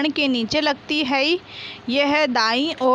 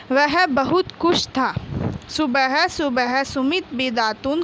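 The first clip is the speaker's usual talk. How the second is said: reading aloud. Shown as a demonstration. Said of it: "बोल बोल कर पढ़िए".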